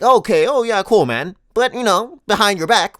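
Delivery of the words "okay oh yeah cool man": briefly raised, falsely agreeable reply; feigned approval. Pretend. Comedian pretends to like friend's new haircut, falsely approving. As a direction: humour him with pretend enthusiasm. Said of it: "I'm going to pretend like".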